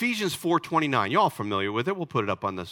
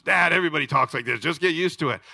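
son's retort; faster than usual. Retold or imitated. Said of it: "I get this from my son".

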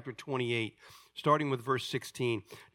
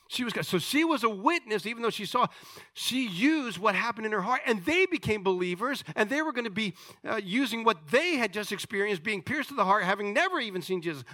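raised, emphatic sermon delivery; forceful preaching; 7 semitones higher than usual. Acted. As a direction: preach it out, punching key words.

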